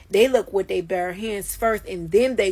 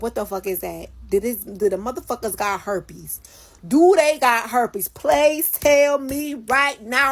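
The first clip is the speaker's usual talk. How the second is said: panicked; 3 semitones higher, 5 dB louder than usual. Retold or imitated. Panicked questions to nurse.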